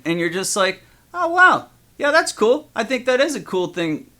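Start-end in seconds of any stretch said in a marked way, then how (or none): 1.1-4.1 mock enthusiasm. Dad humoring his kid's telescope wish, mock-enthusiastic and high.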